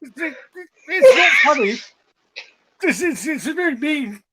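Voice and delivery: giggling pretend disapproval; mock stern while laughing. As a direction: scold with a laugh in the voice. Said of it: "I'm like".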